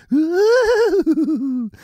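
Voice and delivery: high rising ghostly ooh, loud; a haunted-house ghost moan; mock spooky wail.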